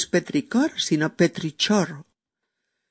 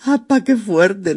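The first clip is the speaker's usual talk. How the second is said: louder "¡Apa, qué fuerte!" in mock astonishment; surprised; 4 semitones higher, 5 dB louder than usual. Real, not acted. Host amazed by the toe fact. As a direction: exclaim it, amazed. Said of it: "surprised reaction".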